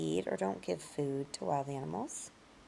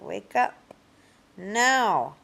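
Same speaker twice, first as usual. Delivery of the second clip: louder, higher mock command to get up; mock wake-up order; 4 semitones higher, 7 dB louder, slower than usual. Teacher playing a parent, a louder mock order to wake up. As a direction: bark it like waking a sleepy kid.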